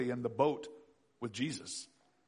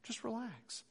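mock soothing; 7 semitones higher than usual. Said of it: "No one wants to hear".

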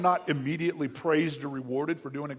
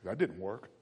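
mock disappointed mutter; 6 semitones lower, 7 dB quieter than usual. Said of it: "automatically get everyone's approval".

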